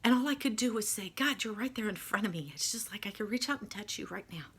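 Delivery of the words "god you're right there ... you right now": tearful. Real, not acted. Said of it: "Sorry, keeping it together".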